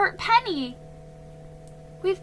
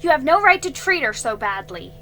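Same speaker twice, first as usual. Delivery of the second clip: loud, higher accusing cry; angry retort; 4 semitones higher, 9 dB louder than usual. A narrator's reading. Girl angrily accusing Jiggy of scaring horse. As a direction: throw the blame back at him. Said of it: "she was angry".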